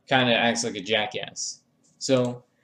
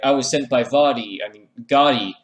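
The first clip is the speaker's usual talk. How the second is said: louder, proud boast; mock announcement; 6 dB louder than usual. Assassin naming who sent him, louder boast. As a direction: blurt it out like a proud henchman.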